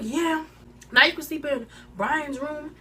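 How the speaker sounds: high-pitched mocking quote; mimicked taunt. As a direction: imitate her jab, voice pitched well up. Imitates friend's jab in argument.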